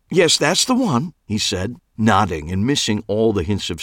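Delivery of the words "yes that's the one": peer out and ask fearfully, higher; fussy Clive voice. A narrator's reading.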